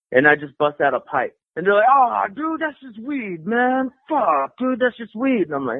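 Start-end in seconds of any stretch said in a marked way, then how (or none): 1.9-5.4 imitated letdown. Hippies let down by weed.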